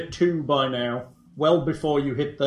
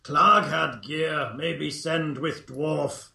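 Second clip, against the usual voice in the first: goblin voice; slower than usual. Acted. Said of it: "That should make easier goblin voices".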